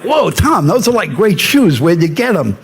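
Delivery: high, gushing fake awe at Tom's shoes; a hint of over-the-top fan gush; gushing mock fan. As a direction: play the giddy fan gushing over a celebrity's shoes, lightly mocking. Mocking star-struck chatter to Cruz.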